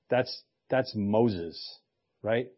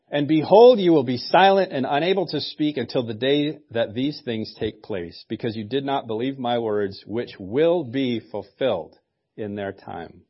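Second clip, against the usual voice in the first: annoyed; 3 dB louder than usual. Retold or imitated. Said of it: "a very annoyed tone".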